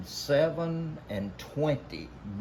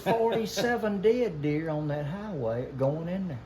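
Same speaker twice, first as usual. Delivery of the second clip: laughing, louder and higher; excited; 9 semitones higher, 7 dB louder than usual. Real, not acted. Hunter excitedly telling friends about dead deer on highway.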